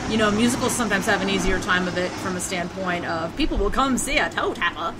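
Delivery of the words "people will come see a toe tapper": put-on old timey voice. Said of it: "that's my old timey voice".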